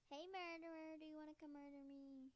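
high, loud taunting call. Pretend. Player calling to the murderer, loud teasing holler.

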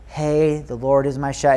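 flat, droning bedside recital; monotone reading. Retold or imitated. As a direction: recite it without life, like a dull formality. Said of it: "read in, like, a monotone voice".

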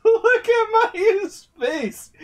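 high squeaky laugh while talking; words breaking into laughter. Real, not acted. Cracking up at scene.

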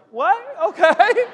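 high, questioning mock disbelief; retold bewilderment. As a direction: play a baffled kid going along with it. Bewildered boy told dinner comes to them.

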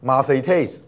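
吗啡taste with the accent on the last syllable, taste; stress on final syllable. Shown as a demonstration. Teacher shows students the last-syllable accent, taste stressed in 吗啡taste. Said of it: "尾音节".

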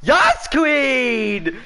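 a hint of sassy drag queen; campy drag queen. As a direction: throw it out like a drag diva. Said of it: "campy drag queen exclamation".

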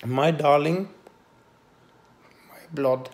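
emotional, heartfelt translation; tender. Real, not acted.

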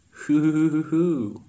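loud high hoots, a put-on voice; high mock hooting. Real, not acted. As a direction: hoot it out in shock. Reacting to sudden death.

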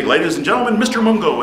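lightly voiced comedy-show emcee, pitch lifting on the name; stage introduction. Class clown introducing his teacher to the class, emcee style. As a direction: introduce the next act to the crowd. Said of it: "and then I'd say".

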